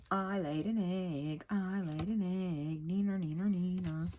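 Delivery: slow, taunting sing-song brag; a hen gloating to the other ladies; mock bragging hen. Hen taunting the other four hens, mild sing-song brag. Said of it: "letting everybody else ... know".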